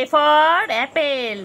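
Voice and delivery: very slow, drawn-out sing-song recital; voicing the pet chanting ABCs; pet reciting alphabet. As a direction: spell it out like a toddler learning letters. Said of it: "চিংড়ি বলে".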